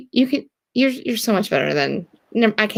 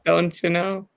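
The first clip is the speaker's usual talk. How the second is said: put-on Minnesotan accent; slower than usual. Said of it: "when you say that".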